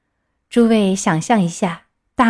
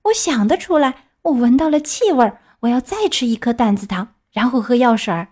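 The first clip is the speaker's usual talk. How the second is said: put-on higher, lightly childlike puppet voice; protesting puppet child; 3 semitones higher than usual. Puppet argues with the fairy for more candy, mildly whiny.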